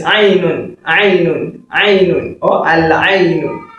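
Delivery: "Ainun" with the Arabic throat consonant; "Ainun" from the throat, full ending sounded; correct Arabic pronunciation. Shown as a demonstration. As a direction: model "Ainun" clearly for learners. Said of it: "the correct pronunciation is".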